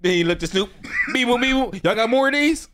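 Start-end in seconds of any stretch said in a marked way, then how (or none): 1.1-1.8 high robotic beep boop; chirpy alien robot talk. Pretend. Voicing alien talking to Snoop. 1.8-2.7 high alien voice; curious alien asking. Pretend. Alien asks Snoop.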